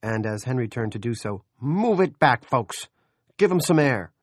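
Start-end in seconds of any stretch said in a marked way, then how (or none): 1.6-4.1 loud bawled crowd order; bawling. A narrator's reading. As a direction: yell it over the crowd. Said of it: "Morrison bawled".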